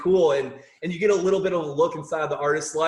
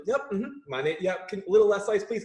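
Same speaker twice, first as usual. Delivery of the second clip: overly cheerful; 3 semitones higher than usual. Retold or imitated. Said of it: "going extra hard".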